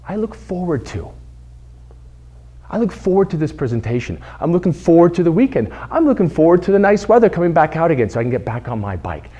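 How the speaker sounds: I look forward to said gently and calmly; positive phrasing. Shown as a demonstration. Speaker models the positive alternative, calm and pleasant. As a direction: offer the better phrase kindly. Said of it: "The positive thing to say is".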